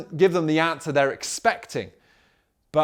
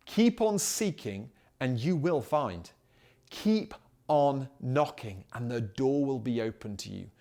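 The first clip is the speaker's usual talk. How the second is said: scripture reading. Acted. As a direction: read the promise deliberately, word by word. Reads scripture aloud.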